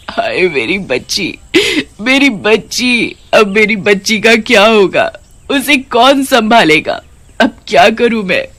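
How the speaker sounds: slow, despairing mother's wail; a new ghost grieving beside her own body; grieving lament. Acted. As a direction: mourn for the child left behind. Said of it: "उसे रोते हुए देख".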